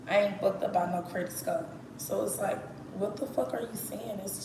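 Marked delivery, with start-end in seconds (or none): 0.1-1.7 country Texas accent. Shown as a demonstration. Showing viewers how Texans talk, country accent. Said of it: "so country".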